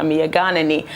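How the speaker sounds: Mia Ghanani said in Twi, mee-a gah-nah-nee, all syllables even and level; Twi phrase. Shown as a demonstration. Artist to interviewer, proudly saying Mia Ghanani in Twi. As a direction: say Mia Ghanani as a Twi speaker would, unhurried. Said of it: "as we say in my language in Twi".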